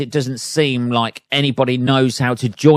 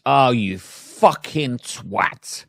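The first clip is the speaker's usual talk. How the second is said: mock road rage; much slower than usual. Shown as a demonstration. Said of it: "go-to, uh, fucking exclamation in the car is".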